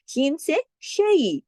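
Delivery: शै said slowly with a soft gliding diphthong, not Urdu style; soft gliding shai. Shown as a demonstration. Teacher shows the soft glide in शैतानम. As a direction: glide softly through शै. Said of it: "इसको शै नहीं पढ़ेंगे".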